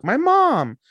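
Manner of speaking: put-on very high, loud girl voice; very high little girl. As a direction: cry it out high. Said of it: "Why do you need the drug".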